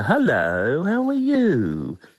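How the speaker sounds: very high, lilting, swooping sing-song, "you" stretched out. Retelling how a shopping centre manager greeted him: Sybil Fawlty voice. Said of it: "she spoke like Sybil Fawlty".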